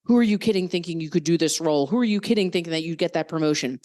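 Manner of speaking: fast, sneering inner critic voice; harsh inner critic. Retold or imitated. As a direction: rattle off the self-put-downs quickly. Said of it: "when we hear that voice".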